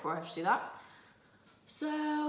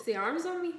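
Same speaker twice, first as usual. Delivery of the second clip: high-pitched, unguarded Dublin accent; strong Dublin accent; 7 semitones higher, 4 dB louder than usual. Real, not acted. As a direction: let the Dublin accent slip out. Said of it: "I've never sounded so more Dublin".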